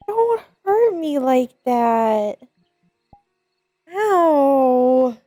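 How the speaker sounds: high, loud playful protest; playful complaint. Pretend. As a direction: whine like you're hurt. Friend Bio attacks her.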